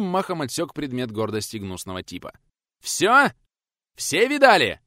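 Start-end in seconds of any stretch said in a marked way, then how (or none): 2.8-4.8 triumphant yell, much higher and louder. Acted. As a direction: roar it at the whole crowd. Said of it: "проорал трудовик". (орёт, очень громко и высоко)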